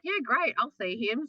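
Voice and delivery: high, mock-bright agreement; fake cheerful. Telling best friend she'll see Shane, fake cheerful. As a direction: sound happy to go see him. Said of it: "so I said".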